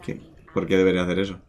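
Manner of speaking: lightly voiced worried woman; woman NPC. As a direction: read her lines with mild worry.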